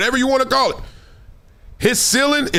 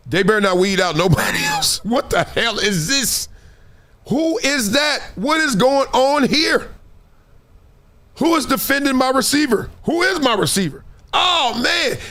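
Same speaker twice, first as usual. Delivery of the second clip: stare at the defense in disbelief and ask who that is; baffled rookie; 5 semitones higher than usual. Retold or imitated. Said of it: "you like".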